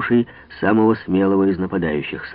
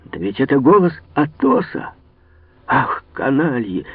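higher, agitated cry; excited outburst; 5 semitones higher than usual. A narrator's reading. D'Artagnan, recognizing Athos, bursts out. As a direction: burst out in alarm and anger. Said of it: "вскричал Д'Артаньян".

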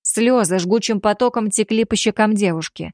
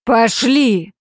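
loud barked command; growled order; 3 semitones higher, 4 dB louder than usual. Acted. Damir ordering the girl along, angry growl. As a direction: drag her off with a snarl. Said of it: "прорычал".

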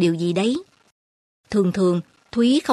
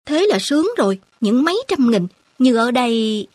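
put-on higher, louder, keen young man; country boy gushing about a few hundred thousand, excited; eager; 3 semitones higher, 3 dB louder than usual. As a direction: pitch it up with naive enthusiasm. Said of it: "anh Cảnh vẫn hăng hái".

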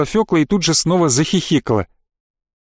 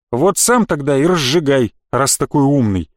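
ordinary delivery

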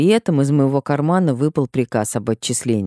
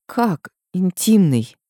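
stunned disbelief; 5 semitones higher, slower than usual. Acted. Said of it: "Язык еле повернулся выговорить".

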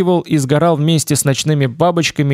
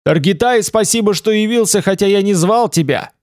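higher, booming shout; mighty shout; 6 semitones higher than usual. Acted. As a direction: call out with a mighty voice. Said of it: "Олег закричал могучим голосом".

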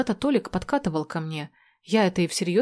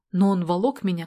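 ordinary delivery, nothing marked

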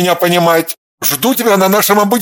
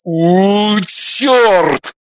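louder angry growl; 2 semitones higher, 3 dB louder than usual. A narrator's reading. Jealous husband alone in the bedroom, angry growl. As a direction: snarl the curse. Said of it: "зарычал он".

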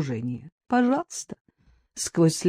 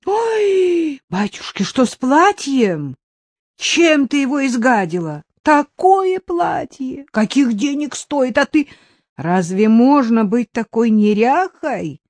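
put-on higher, scolding old woman's voice; old woman grumbling; 6 semitones higher, 3 dB louder than usual. A narrator's reading. The old woman scolds Marina over the dress, higher grumbling. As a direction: fuss over the ruined dress like a cross old nanny. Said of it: "Заворчала старуха".

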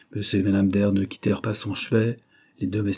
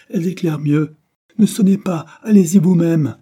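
higher, louder command; loud order; 9 semitones higher, 10 dB louder than usual. Acted. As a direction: send her off sharply. Dying man orders Julia.

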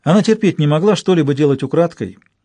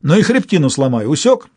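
loud brutish threat, higher on Усёк; orc; 4 semitones higher, 4 dB louder than usual. Acted. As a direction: menace the boy loudly. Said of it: "предупредил Торк".

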